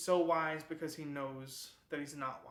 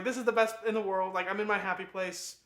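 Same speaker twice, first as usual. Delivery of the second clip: put-on higher, louder blissful girl voice; carefree Catherine; 5 semitones higher, 10 dB louder than usual. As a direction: gush like nothing could be wrong. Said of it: "She's like".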